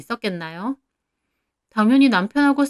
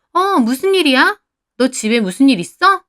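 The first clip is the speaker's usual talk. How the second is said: excited prying; 5 semitones higher, 5 dB louder than usual. Acted. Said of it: "들떠서 물어보는".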